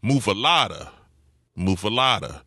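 muffalata in a firmer New Orleans accent; harder New Orleans accent. Shown as a demonstration. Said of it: "a harder accent".

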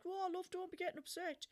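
high-pitched imitated reassurance; consoling bloke. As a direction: play a bloke soothing an upset customer. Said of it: "he was like".

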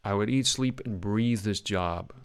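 relaxed American accent, "breathe" drawn out slowly; teacher's American accent, slow on "breathe"; American accent demo. Shown as a demonstration. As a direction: demonstrate the relaxed American line. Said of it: "working on your American accent".

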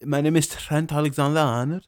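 teasing Liverpool accent impression; mock Scouse accent. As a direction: mimic a footballer's Scouse accent. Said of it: "he has that Liverpool Scouser accent".

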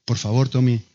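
low, measured polite request; pedir bien. Retold or imitated. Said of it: "decirle esto a tu hermano bien". (petición amable y contenida, en tono bajo)

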